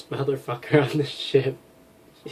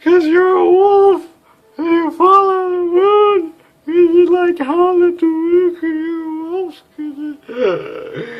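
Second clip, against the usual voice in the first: mock excited cry; 9 dB louder, slower than usual. Teasing the captain about her name.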